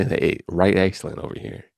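put-on light Caribbean accent, playful; a hint of a Caribbean lilt. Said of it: "in a Caribbean accent and tone".

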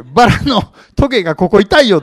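comic corpse, laughing as he says it; joking corpse voice. Pretend. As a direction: play the dead man sitting up to grumble. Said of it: "死んでる人がね、パッと目開けて".

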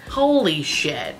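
a real can't-believe-it squeal; stunned disbelief. Real, not acted. To viewers over the swatches, a stunned high squeal.

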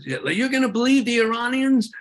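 high, loud mock disbelief; scoffing pushback. Critics scoffing at believing Iranians, high mocking disbelief. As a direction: sneer it like a sceptic brushing you off. Imagined critic pushing back.

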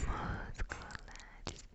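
slow, soft whispered repetitions; lingering, hushed ASMR echo. Acted. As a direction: draw "musculares" out in a faint whisper. Echoes last word as ASMR effect.

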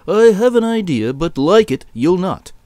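a hint of the shepherd's voice; shepherd boss with an idea. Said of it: "He said".

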